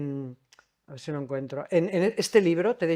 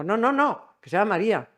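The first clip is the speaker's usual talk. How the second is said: firm correction; 4 semitones higher, 5 dB louder than usual. Retold or imitated. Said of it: "Y ella dijo".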